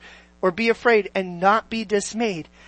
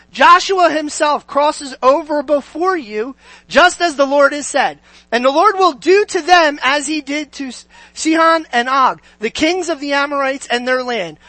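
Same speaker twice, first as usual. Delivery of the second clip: high, projected Bible reading; declamatory preacher reading aloud; scripture reading; 3 semitones higher than usual. Acted. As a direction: proclaim the verse to a congregation.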